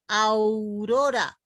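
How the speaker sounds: Aurora despacio, con au en una sola sílaba; diptongo, manda la A. Shown as a demonstration. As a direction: junta a y u en Aurora, dominando la a. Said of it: "la A es la que manda". (Aurora estirada, sin separar la au inicial)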